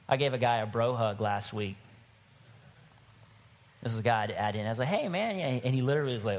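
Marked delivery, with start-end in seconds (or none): 4.9-5.4 higher-pitched casual hello; friendly greeting. Retold or imitated. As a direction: greet a guy with an easy bro hello. Acts out greeting a guy.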